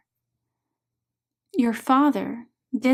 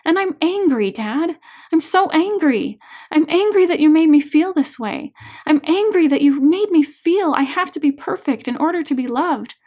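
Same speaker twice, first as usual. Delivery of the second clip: louder and higher, anger building through each line; rising anger; 5 semitones higher, 6 dB louder than usual. Acted. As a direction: let the anger at her father break out. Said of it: "Her voice begins rising, emotions coming even stronger now".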